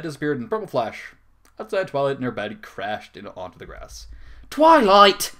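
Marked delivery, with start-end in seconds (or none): 4.5-5.3 loud, high calling scream. Acted. Rarity screaming Twilight's name through the window. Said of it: "Rarity screamed through the window".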